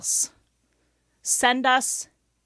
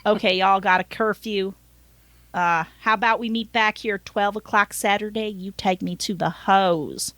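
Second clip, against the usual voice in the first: scheming driver with a light Southern twang; Southern accent; 2 semitones lower than usual. Acted. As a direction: make the offer in a put-on Southern accent. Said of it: "I gave him a Southern accent".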